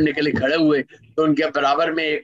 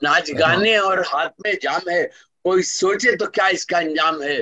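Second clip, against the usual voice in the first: measured, rhythmic poetry recital; stately nazm recitation; 2 semitones higher than usual. Acted. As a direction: declaim each line to the audience. Resumes nazm after anecdote.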